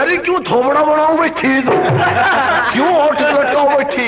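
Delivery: mildly hammed-up irritated demand; a touch of gruff impatience; rough scolding. Scruffy third son asks pouting mother, rough scolding.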